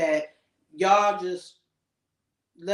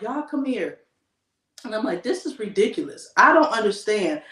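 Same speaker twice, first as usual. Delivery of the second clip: fed-up scolding. Retold or imitated. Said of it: "So I'm like".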